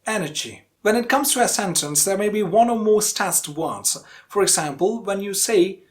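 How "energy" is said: ENERGY with EN strong, ending light; first-syllable stress. Shown as a demonstration. Teacher summing up, stressed on EN. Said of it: "stress falls on the first syllable".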